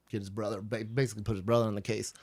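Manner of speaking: slipping into a southern accent. Real, not acted. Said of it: "do you hear my southern accent right there".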